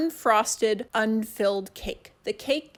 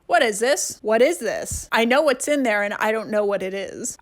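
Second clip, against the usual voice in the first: wild unhinged ranting; 5 dB louder than usual. Acted. Exasperated rant at Jell-O.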